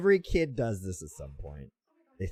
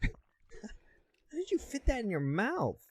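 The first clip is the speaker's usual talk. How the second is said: slow, much higher teasing drawl; mock high voice; 13 semitones higher, much slower than usual. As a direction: stretch it out high, teasing the eater. Mocking an ASMR eater.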